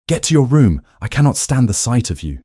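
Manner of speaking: a loud shout, high and harsh; acted shout. Duke shouting at his wife as the footman enters, loud. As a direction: bark it out for the servants to hear. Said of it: "raising his voice to a shout".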